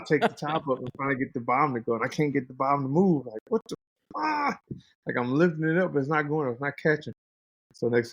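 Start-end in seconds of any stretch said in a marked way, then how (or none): 3.5-4.6 much higher mock bewildered cry; a light, pitched-up what-the-hell; confused outburst. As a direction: squeak it out in disbelief. His own stuck confusion retold.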